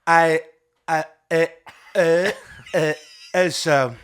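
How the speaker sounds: put-on slurring, halting drunk Trump; stumbling over words, tipsy. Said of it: "He's a little drunk".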